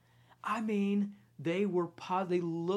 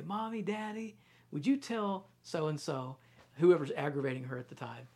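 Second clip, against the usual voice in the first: lightly voiced little girl tattling; a hint of a small child complaining to her parents; mommy and daddy, she's tattling; child's tattling voice. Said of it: "she would say this".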